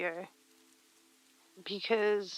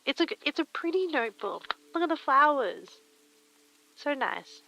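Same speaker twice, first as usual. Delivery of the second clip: higher, quick gushing over the flowers; 6 semitones higher than usual. Real, not acted. Streamer gushing to chat about her pretty notebook. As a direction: coo over it, a bit higher and faster.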